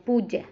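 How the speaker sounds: पूज्य as puj-je, falling; short u and doubled j in पूज्य; taught short vowel. Shown as a demonstration. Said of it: "पूज्य बोलते हैं".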